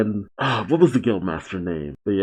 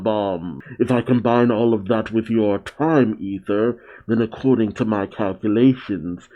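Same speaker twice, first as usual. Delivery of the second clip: lightly voiced mad scientist. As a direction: lightly play the disgusted mad doctor. Voiced while reading manga.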